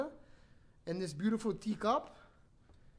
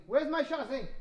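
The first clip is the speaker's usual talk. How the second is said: higher, insistent call for something missing; 6 semitones higher than usual. Real, not acted. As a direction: call out, raising the pitch. Calling out for missing item.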